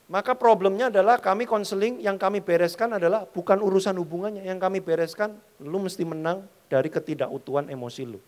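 ordinary talk

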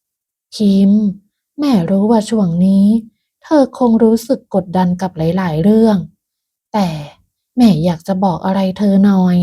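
mild, gentle motherly tone; tender. Acted. Mother-in-law opening a heart-to-heart with Pim, tender. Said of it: "ก่อนพูดด้วยน้ำเสียงอ่อนโยน".

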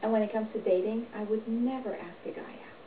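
ordinary talk

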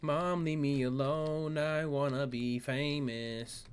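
slow, lightly voiced sulky teen; hint of a kid whining at mom, drawn out; mock whiny kid.

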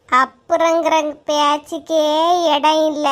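no room for later, said slow and hard; firm refusal. Acted. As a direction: lay it down slowly and firmly. Refusing to lend in quarrel.

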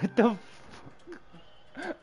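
high, very drawn-out disbelief; retold bewilderment. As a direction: stretch it out high, acting baffled. Quotes own bewildered reaction.

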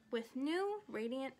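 slowly repeating. Acted. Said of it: "repeated Charlotte slowly".

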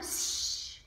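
breathy shh, soft; hush. Acted. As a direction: hush it like a baby sleeps nearby. Mama hushes for baby.

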